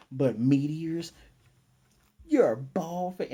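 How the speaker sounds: incredulous outburst. Retold or imitated. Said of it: "he's like".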